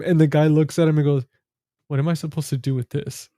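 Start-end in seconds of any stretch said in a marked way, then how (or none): 1.9-3.3 calm, understated retold question. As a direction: imitate someone taking it calmly. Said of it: "he was so calm about it".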